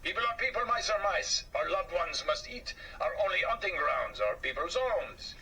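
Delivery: lightly voiced shrugging mouse; a hint of an easygoing French mouse; casual Gaston. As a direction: shrug it off, worldly. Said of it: "scoffed Gaston".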